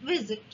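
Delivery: ভিজিট with the first syllable ভি stressed and জিট light. Shown as a demonstration. Teacher showing students word stress, first syllable of ভিজিট stressed. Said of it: "ভিটায় জোর দিচ্ছি".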